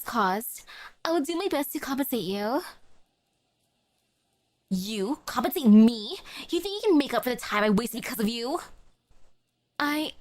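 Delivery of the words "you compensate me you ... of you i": entitled customer. Acted. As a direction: scoff at the offer, then press. Customer rejecting the apology.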